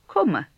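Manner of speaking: "Komme" with a short, quick O; short vowel. Shown as a demonstration. Teacher models the short version for learners, short-vowelled "Komme". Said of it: "also a short version of this".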